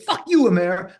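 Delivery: loud, high mock-furious shout; retold angry insult. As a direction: return the insult, replaying the quarrel. Retold swearing argument.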